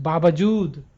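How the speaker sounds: बावजूद said with force on the whole word; emphatic, firmly delivered बावजूद; whole-word stress. Shown as a demonstration. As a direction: put weight on all of बावजूद, falling at the end. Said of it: "जिस पर जोर देना पड़ता है".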